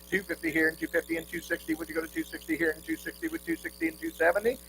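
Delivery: rapid rhythmic bid chant; auctioneer. Real, not acted. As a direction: rattle off the bids in a singsong roll.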